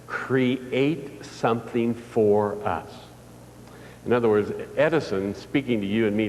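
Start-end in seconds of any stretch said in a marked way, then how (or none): 0.1-2.9 slow, drawn-out solemn reading; slow solemn message. Retold or imitated. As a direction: spell out the message word by word, slowly. Morse message read out slowly.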